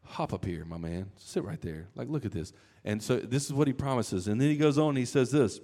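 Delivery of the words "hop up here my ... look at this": welcoming Jesus. Retold or imitated. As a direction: invite him up gently, like a friend. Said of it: "he's gonna be like".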